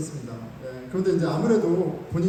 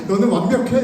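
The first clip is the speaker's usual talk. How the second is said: louder, laughing challenge: you think you're perfect; mock-offended retort, half laughing; indignant inner retort; 3 semitones higher, 7 dB louder than usual. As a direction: scoff it through a laugh. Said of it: "이런 생각이 막 마음에서 들고".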